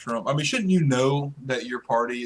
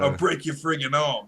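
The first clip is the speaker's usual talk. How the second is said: mock New York thug accent; lightly voiced New York mobster accent; New York tough guy. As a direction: threaten like a New York hood. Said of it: "straight out of New York".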